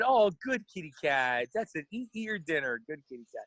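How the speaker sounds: mock cooing to tigers. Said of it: "She said".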